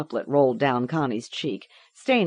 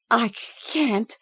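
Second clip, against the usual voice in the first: put-on stammering child; 9 semitones higher than usual. A narrator's reading. Girl stammers refusal.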